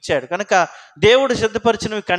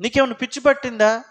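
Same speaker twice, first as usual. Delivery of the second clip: scoffing question pitched higher; mocking taunt; 4 semitones higher than usual. Relative mocking a believer's prayer, higher scoffing question. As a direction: tease them as if they're crazy. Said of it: "అనేకులకు నేను ఒక వింతగా".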